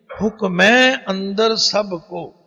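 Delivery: slow, ਹੁਕਮੈ said with a full open "ai" ending, not ਹੁਕਮੇ; ਹੁਕਮੈ ਨੂੰ ਹੁਕਮੇ ਨਹੀਂ, ਪੂਰਾ ਉਚਾਰ ਕੇ ਬੋਲੋ; careful scripture pronunciation. Shown as a demonstration. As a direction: lean on ਹੁਕਮੈ, draw out its final vowel. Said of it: "ਇਹਨੂੰ ਹੁਕਮੇ ਨਹੀਂ ਬੋਲਣਾ".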